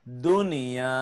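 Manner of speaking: দুনিয়া with the final "য়া" held long; one-alif elongation. Shown as a demonstration. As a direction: stretch the last vowel of দুনিয়া. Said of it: "এক আলিফ টেনে পড়তে হয়". (দুনিয়া-র "য়া" এক আলিফ টেনে পড়া)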